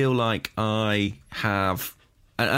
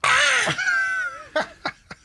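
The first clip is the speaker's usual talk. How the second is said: seagull cry. Pretend. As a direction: shriek like an angry seagull. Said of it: "Shall I do it again?".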